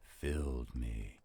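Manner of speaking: slow, hushed, rhythmic recitation with a few whispered lines; dramatic poem reading. Acted. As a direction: draw the listener into a gloomy midnight tale. Recites the third stanza.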